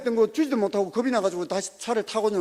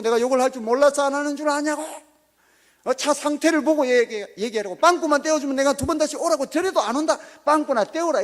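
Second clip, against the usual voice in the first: higher, louder angry retort; retold shouting back; 5 semitones higher, 4 dB louder than usual. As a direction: shout back at the mechanic, pitch raised. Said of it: "큰 소리로 입에서 막 나오는데". (정비소 사장에게 높고 큰 소리로 맞받아치며)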